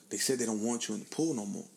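low, soft imitation of a friend; retold confidential undertone; hushed warning. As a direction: pass on bad news discreetly. Friend relays the ban discreetly.

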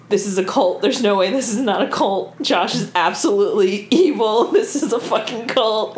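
emphatic read-out of alarmed notes; all-caps emphasis. Retold or imitated. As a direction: read it as if written in capitals. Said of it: "in all caps".

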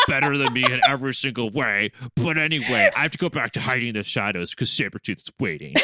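lightly voiced comic hero, close to laughing; Logan impression. Co-host as Logan excuses himself for Sabretooth, light impression. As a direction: sign off in a mildly put-on character voice. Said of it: "have Logan come back and be like".

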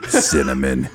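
said through laughter; laughing. Real, not acted. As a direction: laugh out the word.

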